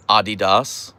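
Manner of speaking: "Adidas" as AH-dee-dahs; "Adidas" ending in a clear DAHS; European pronunciation. Shown as a demonstration. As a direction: say "Adidas" the European way, with open ahs. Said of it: "If you're European".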